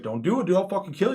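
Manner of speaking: high, loud imitated warning; mock threat. Armed bandit warning off a player with a stick, yelling. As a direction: warn him off in a panicky-bandit yell.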